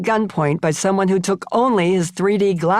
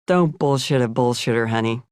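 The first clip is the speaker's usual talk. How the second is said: lower, lightly voiced sly talk-show host; a knowing, teasing aside to his guest; sly Johnny Carson; 5 semitones lower than usual. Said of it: "with a sly grin and said".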